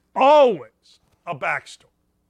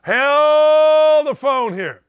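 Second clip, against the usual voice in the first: drawn-out, loud, high mock alarm; slow, loud sarcastic hold-on; mock hold the phone; 7 semitones higher, 8 dB louder, much slower than usual. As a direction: stretch it out like a hammed-up alarm bell. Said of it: "the N B A says".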